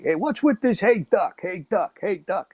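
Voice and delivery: high-pitched mock exasperation, not truly shouted; retold annoyed yelling. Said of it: "he started yelling back to me".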